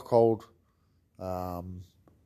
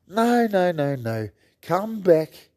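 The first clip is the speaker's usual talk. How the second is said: high, loud insistent no; emphatic no; 7 semitones higher, 5 dB louder, slower than usual. Retold or imitated. Coach telling the newcomer not to quit, insistent and loud. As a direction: cut him off, insisting. Retold reply to quitting newcomer.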